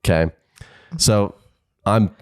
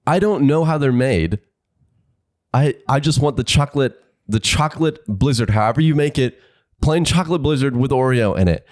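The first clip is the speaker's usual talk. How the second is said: higher, pressed, getting worked up at the speaker box; flustered customer losing patience, pitched up; flustered repeat; 5 semitones higher than usual. Retold or imitated. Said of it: "my heartbeat is going up".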